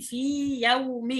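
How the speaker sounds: "في يوم" with both ya sounds kept apart, slowly; clear separate ya. Shown as a demonstration. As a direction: say "في يوم" slowly, the first ya not merged into the second. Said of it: "أظهر الياء من الياء".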